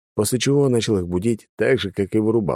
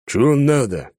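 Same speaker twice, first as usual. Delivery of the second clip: gruff bark at the door; loud swearing; 7 semitones higher, 4 dB louder than usual. A narrator's reading. Thug opening the door to a stranger, loud gruff bark. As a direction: curse at the stranger loudly. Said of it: "громко выругался".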